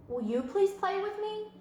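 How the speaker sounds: pleading piglet. A narrator's reading. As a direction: beg the lamb to play. Wilbur begs the lamb.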